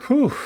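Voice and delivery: winded exhale after running; real puffing whew; breathless whew. Real, not acted. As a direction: blow out a tired breath. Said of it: "I'm a little out of breath".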